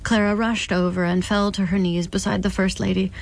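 steady, measured audiobook reading; story narration. A narrator's reading. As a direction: lay out the grim scene evenly for the listener. Narration resumes.

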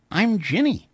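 put-on high, childlike voice; little ghost girl. A narrator's reading. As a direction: play a small girl introducing herself.

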